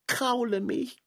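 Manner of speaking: pleading through tears; begging for comfort, tearful; crying. Acted. Crying frog begs his friend for comfort.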